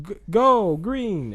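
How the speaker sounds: high excited yell of go green; shouting go. Retold or imitated. Racer yelling the start signal, loud and high. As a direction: call the race start at full voice.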